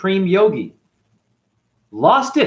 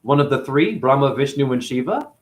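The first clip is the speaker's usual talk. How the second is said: outraged Sita. Retold or imitated. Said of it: "She's like".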